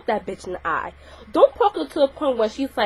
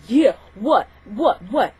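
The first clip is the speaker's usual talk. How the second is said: mock yelling back; 4 dB louder, slower than usual. Shown as a demonstration. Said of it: "you start yelling back".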